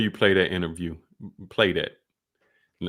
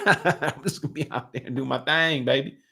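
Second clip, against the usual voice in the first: higher, laughing mock voice; 3 semitones higher than usual. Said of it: "And the white folks say".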